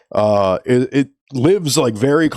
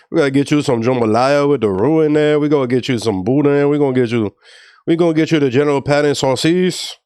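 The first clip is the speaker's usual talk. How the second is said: put-on Creole accent; 2 semitones higher than usual. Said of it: "my Creole accent was like".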